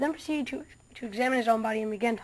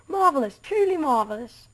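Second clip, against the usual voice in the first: delighted; 4 semitones higher, 5 dB louder than usual. Acted. Doctor admires new world.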